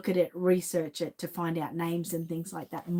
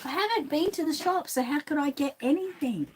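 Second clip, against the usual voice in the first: repeating it higher, exasperated; 7 semitones higher than usual. Real, not acted. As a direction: come on, I told you already. Repeats to insistent child, exasperated.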